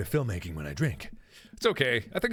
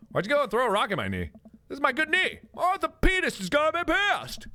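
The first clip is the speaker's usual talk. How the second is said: whiny complaint; 12 semitones higher than usual. Acted. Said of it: "character complaining about knee".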